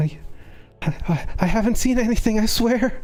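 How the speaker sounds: frightened, scared, stammering voice. Playing a shaking person who squirms away from guards: frightened, stammering character. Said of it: "shaking and retracting, like, trying to squirm away".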